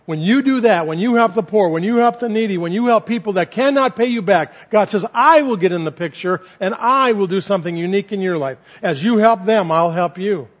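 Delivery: fervent pulpit build; building sermon passion. Acted. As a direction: climb with each "when you help". Preaching God's promise, building.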